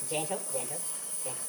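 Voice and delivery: soft coaxing. Shown as a demonstration. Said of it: "he says".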